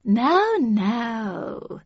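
drawn-out placating "now, now"; mollifying counsellor stepping in; soothing interruption. A narrator's reading. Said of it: "interrupted Havisham in a soothing tone".

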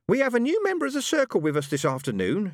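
a mild put-on spirit voice; spirit guide speaking. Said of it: "she said".

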